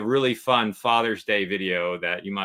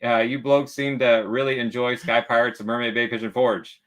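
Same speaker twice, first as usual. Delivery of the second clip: hearty pirate read; 2 semitones higher, 4 dB louder than usual. Retold or imitated. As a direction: read it like an old sea pirate. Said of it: "Yolanda says".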